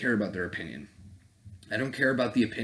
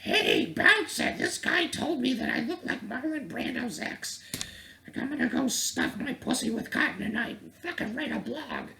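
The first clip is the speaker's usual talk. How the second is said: whiny girl mockery. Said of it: "She's like".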